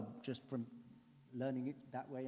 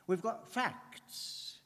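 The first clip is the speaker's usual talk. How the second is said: slow deliberate; 8 semitones higher, much slower than usual. Acted. Preacher stressing facts.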